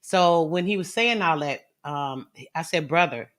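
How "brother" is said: calm, measured address. Retold or imitated. Woman answering her accuser on the panel, very calm. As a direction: say it evenly, keeping composure. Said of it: "I said it very calmly".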